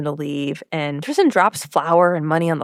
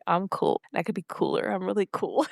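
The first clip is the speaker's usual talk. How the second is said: soft murmured self-assurance; quiet, playful boast to the mirror; mock self-pep talk; 7 dB quieter than usual. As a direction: hush it to yourself, half laughing. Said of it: "I wake up and I'm like".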